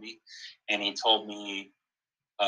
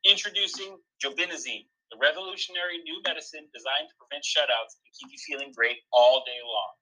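upbeat pharmaceutical commercial pitch; mock ad read; 6 semitones higher, 5 dB louder than usual. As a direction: sell it like a spoof drug ad. Reads a mock sponsor ad.

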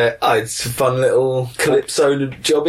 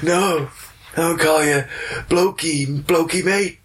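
teasing put-on American voice; American accent; 4 semitones higher than usual. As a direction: keep up the mock American accent. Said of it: "in your American accent".

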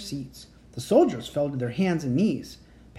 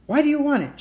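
grinning; 11 semitones higher, 5 dB louder, faster than usual. A narrator's reading.

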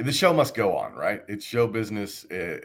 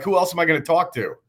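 exasperated mock retort; 9 semitones higher, 5 dB louder, faster than usual. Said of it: "I'm like".

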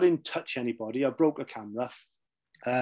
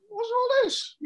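high, baffled mock exclamation; puzzled outcry. Platini and Blatter gawping at the wives' limo, high baffled cry. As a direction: play Platini, baffled by the sight.

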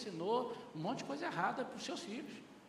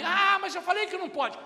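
mother's protest; 9 semitones higher, 8 dB louder than usual. Retold or imitated. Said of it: "Aí a mãe".

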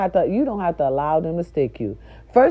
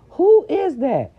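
puzzled; 11 semitones higher, 4 dB louder, slower than usual. Real, not acted. Struggling to recall a name.

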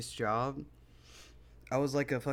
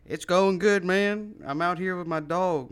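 loud, higher chatty stranger; retold dog owner; 6 semitones higher, 7 dB louder than usual. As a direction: imitate the friendly dude with his dog. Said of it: "He's like".

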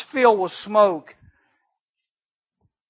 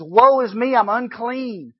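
higher, louder cry of despair; anguished cry; 6 semitones higher, 6 dB louder, slower than usual. Retold or imitated. Isaiah fallen down before God, crying out loudly. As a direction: wail it as if falling down. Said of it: "he drops down and says".

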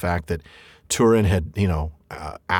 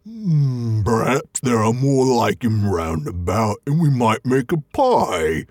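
slow, musing troll voice; a troll plotting a pie; troll Bert; much slower than usual. Acted. Bert wondering about more hobbits, slow musing troll voice. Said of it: "said Bert".

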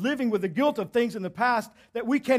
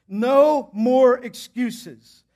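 emphatic preaching; 3 semitones higher, 7 dB louder, much slower than usual. Real, not acted. Preacher hammering the point.

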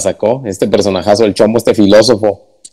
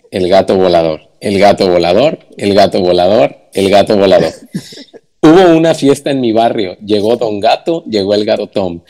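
poetry recitation. Shown as a demonstration. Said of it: "La voy a intentar recitar como poesía".

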